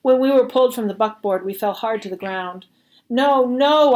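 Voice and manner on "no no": higher, louder desperate cry; begging plea. Acted. Boy begging as guards drag them apart, higher and loud. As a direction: beg them to stop. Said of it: "I begged".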